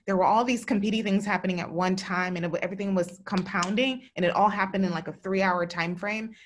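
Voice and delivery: pushing words out through rising emotion; holding back tears. Real, not acted. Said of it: "I, like, kind of broke into tears".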